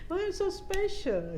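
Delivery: wondering question. Retold or imitated. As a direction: stretch it out in amazement.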